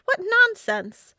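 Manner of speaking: high, loud scoff, drawn out. A narrator's reading. William scoffing at the treasure hunt, loud and slow. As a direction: scoff at the very idea.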